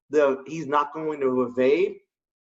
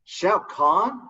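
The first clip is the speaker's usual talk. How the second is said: rising, doubtful "Shao Kahn?" repeated back; puzzled question; 3 semitones higher than usual. Retold or imitated. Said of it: "I'm like".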